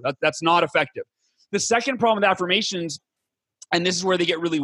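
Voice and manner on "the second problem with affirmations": ordinary delivery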